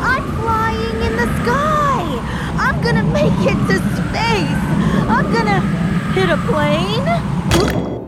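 loud, high and thrilled; excited shouting. Acted. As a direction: yell while soaring upward. Flying through the sky, exclaiming.

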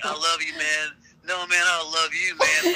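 lightly hammed-up boozy sincerity; tipsy affection. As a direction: play buddies gushing after too many drinks. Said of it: "tuned up".

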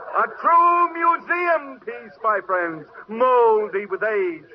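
showman mocking the donkey. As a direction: play the crowd for laughs. Dealer mocks donkey to crowd.

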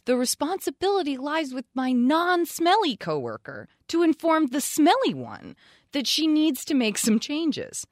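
measured read-aloud with wide pitch swings; reading a listener's letter. A narrator's reading. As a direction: read the letter out with deliberate, emphatic phrasing.

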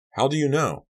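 high, alarmed question; shocked question. A narrator's reading. Son stunned by news of the coma, shocked. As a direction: blurt it out, caught off guard.

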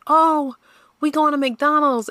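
high, bright mock announcement; mom announcing treat. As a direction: play mom delivering good news. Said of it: "our mom be like".

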